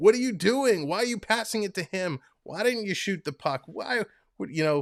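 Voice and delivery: rapid, high, rattled-off barrage of screaming. Speaker telling chat about watching hockey at home, mock-screaming at the tv. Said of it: "I am screaming at the T V".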